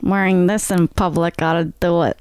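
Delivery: deadpan Elvira quip; low sultry Elvira line; Elvira impression. Elvira quote in her voice.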